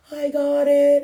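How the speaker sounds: bright, loud "I got it"; cocky soul before the jump; eager volunteer. Retold or imitated. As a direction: sign up with total confidence. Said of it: "You're like".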